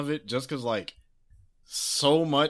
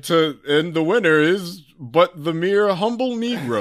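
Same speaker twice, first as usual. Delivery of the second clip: mock announcer; 4 semitones higher, 5 dB louder than usual. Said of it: "it's like".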